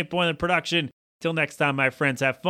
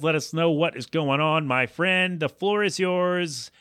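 all in one breath; 2 semitones higher, slower than usual. Real, not acted. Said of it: "I did that in one breath".

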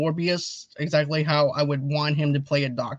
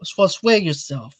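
Robert De Niro. Acted. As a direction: stretch the instruction out in an Italian-American accent. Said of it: "If you wanna do an Italian impression".

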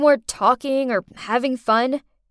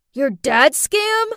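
slow, pointed; 2 semitones higher, 6 dB louder, slower than usual. Acted. Pointed question.

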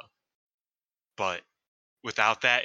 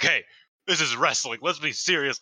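raised-voice imitation of scolding; mock yell; 5 semitones higher, 4 dB louder than usual. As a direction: retell a stern telling-off, a bit louder and higher. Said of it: "when she just yelled at them".

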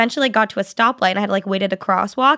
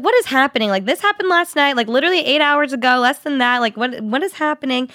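higher-pitched retold bewilderment; incredulous, raised-pitch questioning; bewildered; 4 semitones higher than usual. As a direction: replay your disbelief at events piling up. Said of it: "I was so confused".

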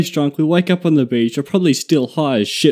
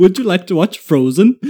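louder, silly caricature voice through laughter; dopey mock Swede; 3 semitones higher, 5 dB louder than usual. Guest continuing the Swedish joke, silly louder voice. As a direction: lightly put on a dopey lilt. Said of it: "sounds like this to speaking to".

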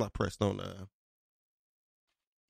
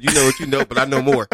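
laughing; 3 dB louder than usual. Retold or imitated. Retelling friend's brag, laughing.

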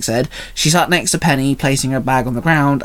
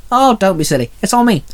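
huffed with a smile; 7 semitones higher than usual. A narrator's reading. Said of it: "Angelique huffed with a smile".

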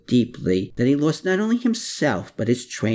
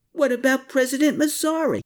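howl. A narrator's reading. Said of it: "Hermann howled back".

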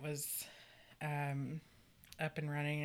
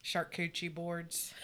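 put-on Okie accent; 4 dB quieter than usual. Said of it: "Said that in my best Okie accent".

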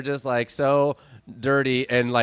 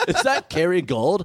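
slow, impressed dude voice; cool dude; 3 semitones higher than usual. Acted. Puppy eyeing the kid's butter, cool dude. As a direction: draw it out like a cool guy. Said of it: "has to be kind of a cool guy".

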